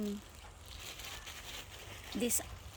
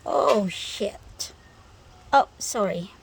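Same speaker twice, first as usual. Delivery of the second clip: startled; 10 dB louder than usual. Real, not acted. Startled, then signs off.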